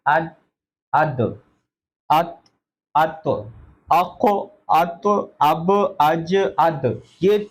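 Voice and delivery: अद, अत, अब, अज with a bouncing end; qalqala drill. Shown as a demonstration. Teacher runs the qalqala drill for students. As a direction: bounce each closing letter. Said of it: "पांच letters हैं".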